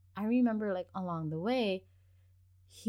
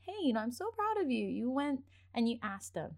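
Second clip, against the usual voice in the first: higher, quick reassuring praise; encouraging mom to her child; 1 proud parent praise; 5 semitones higher than usual. Pretend. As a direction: tell the child you're proud.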